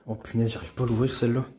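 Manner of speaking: straining to open something stuck; words squeezed out while prying it open; opening a stuck jar. Real, not acted. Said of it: "il est coincé".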